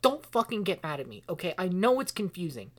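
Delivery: heated pleading. Acted. Maple One begs an angry Maple to calm down, heated pleading. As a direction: argue urgently, trying to get a word in.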